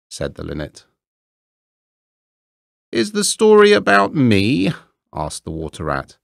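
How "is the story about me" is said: much higher and louder, perking up eagerly; eager vain rat. Acted. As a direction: jump at the chance to be the subject.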